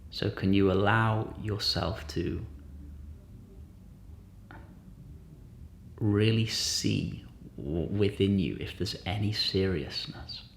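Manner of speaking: gentle guided-meditation voice, long pauses. Real, not acted. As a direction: lightly guide listeners inward, unhurried.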